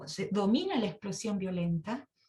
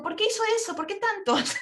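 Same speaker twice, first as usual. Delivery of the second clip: high, louder astonished question; surprised; 11 semitones higher, 4 dB louder than usual. Retold or imitated. Preacher asks the widow why so many, astonished. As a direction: gasp at so many shoes.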